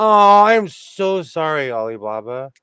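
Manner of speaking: slow, loud, put-on apology; hammed-up sorry to mom; apologetic voice. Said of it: "My older guy's like".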